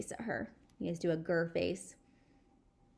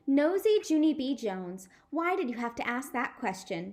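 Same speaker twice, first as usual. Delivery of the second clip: higher, louder huff on nosy; huffy scolding; 5 semitones higher, 3 dB louder than usual. Acted. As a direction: scold her snippily. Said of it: "did a little huff at me".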